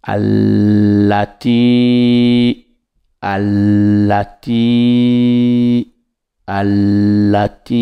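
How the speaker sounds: allati with a drawn, rising ti; pulled ti. Shown as a demonstration. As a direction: stretch the ti of allati. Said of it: "on tire la lettre ti".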